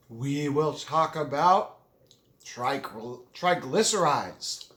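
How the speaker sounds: talking with a mouthful of food; chewing cream cheese while talking; mouth full. Real, not acted. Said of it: "I know I'm talking with my mouth full".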